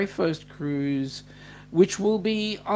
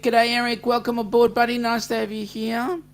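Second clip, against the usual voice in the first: cheery welcome; 6 semitones higher, 4 dB louder than usual. Real, not acted. Warmly welcoming a new viewer.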